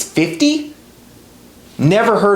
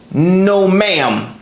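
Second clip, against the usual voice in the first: "ma'am" drawn out with a falling tune; extra emphasis on ma'am; 3 semitones higher than usual. Retold or imitated. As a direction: mimic her firm, leaned-on "ma'am". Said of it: "she always put extra emphasis on the word ma'am".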